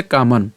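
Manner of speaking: "কামান" ending on a bare ন; half-sounded final consonant. Shown as a demonstration. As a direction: say "কামান" with no vowel after the final ন. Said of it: "তো উচ্চারণটা কেমন হচ্ছে". ("কামান" শেষের ন হসন্ত করে)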